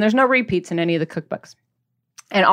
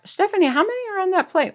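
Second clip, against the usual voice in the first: a much higher, lightly voiced nosy family member; teasing family member; 10 semitones higher than usual. Family member teasing Stephanie about the muffin plate, light high mock voice. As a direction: play the family catching her with the muffins, prying. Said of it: "you're like".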